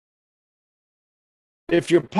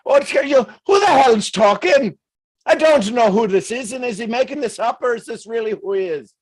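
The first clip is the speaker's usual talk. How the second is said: higher and louder, a mock startled outcry; mock baffled audience; 8 semitones higher, 4 dB louder than usual. Speaker voices viewers confused by the accent, mock startled shout. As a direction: play a puzzled viewer shouting who's talking.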